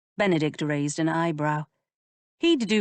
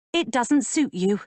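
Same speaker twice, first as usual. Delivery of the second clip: put-on higher, scolding young woman; lightly voiced lady, shocked and reproachful; indignant young lady; 7 semitones higher than usual. A narrator's reading. Georgiana teases Benedict.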